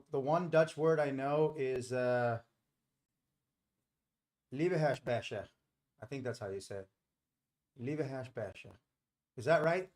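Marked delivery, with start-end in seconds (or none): 4.5-5.5 "Liebeheersbeestje" tried the Dutch way, sounding like leeva-hairs-bay-sha; a learner's careful go at "Liebeheersbeestje" in Dutch; attempted Dutch word. Shown as a demonstration. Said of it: "I'm sure my accent sucks". 7.8-8.7 "Liebeheersbeestje" tried the Dutch way, sounding like leeva-hairs-bay-sha; a learner's careful go at "Liebeheersbeestje" in Dutch; attempted Dutch word. Shown as a demonstration. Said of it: "I'm sure my accent sucks".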